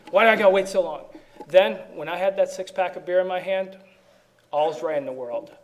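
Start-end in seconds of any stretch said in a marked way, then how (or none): 0.1-1.0 mildly irritated, slightly louder complaint; impatient grumble. Retold or imitated. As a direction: grumble like a man stuck in a checkout line. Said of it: "I'm mad".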